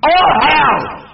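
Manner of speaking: "Oh hell!" as a mangled, mocking hello. Mocking how the officer answers the phone, a sneering "Oh hell!". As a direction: parrot their "Oh hell!" greeting with scorn. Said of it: "This is how you speak".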